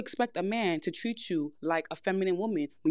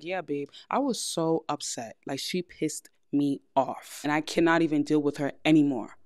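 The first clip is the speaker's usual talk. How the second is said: soft feminine; 4 semitones lower than usual. Shown as a demonstration. Girlfriend telling her man a complaint, soft and feminine. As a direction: complain sweetly to your man. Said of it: "how feminine I appear talking like that".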